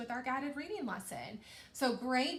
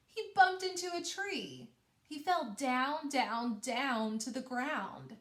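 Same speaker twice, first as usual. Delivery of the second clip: slow down on each "down" as he falls; lively storybook reading for children; expressive story reading; slower than usual. Shown as a demonstration. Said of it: "let me show you what that looks like".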